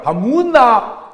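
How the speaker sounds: loud, slow gruff demand; gruff to wife. Retold or imitated. Gyeongsang husband demanding rice from his wife, loud and slow. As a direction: bark it slowly at the wife. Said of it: "마누라".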